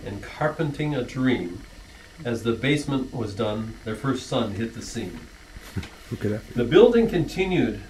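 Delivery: rhythmic rhyming verse, read as a toast; poem recital. Acted. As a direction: recite the family poem with a gentle lilt to the rhymes. Reads rhyming anniversary poem.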